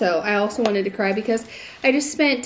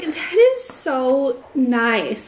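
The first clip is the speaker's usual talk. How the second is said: touched, near tears; 3 semitones higher, 3 dB louder, much slower than usual. Retold or imitated. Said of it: "it literally made me start crying".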